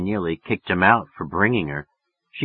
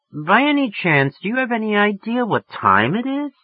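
put-on affected English accent; 12 semitones higher than usual. A narrator's reading. Woman chiding a late caller, affected English accent. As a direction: put on English refinement, pitched high. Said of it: "She was getting an English accent".

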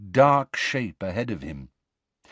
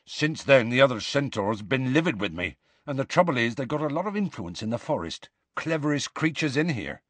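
rustic giant's explanation, pitch climbing; Hagrid, worried; 4 semitones higher than usual. Acted. Hagrid explains the centaurs' influence, concerned. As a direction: explain in a broad country accent, lifting the pitch.

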